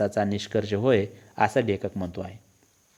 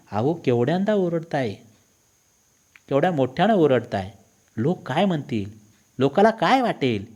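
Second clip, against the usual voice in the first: mildly acted wifely telling-off; understated nagging reproach; wife's scolding; 3 semitones higher than usual. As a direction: lightly chide a noisy husband. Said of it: "माझी बायको मला दम द्यायची".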